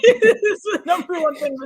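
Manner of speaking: giggling while she talks; speaking mid-laugh. Real, not acted.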